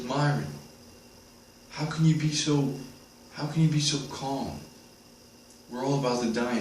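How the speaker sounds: high-pitched imitation of an anxious girl; girl questioning the monk. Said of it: "one of the girls in the group".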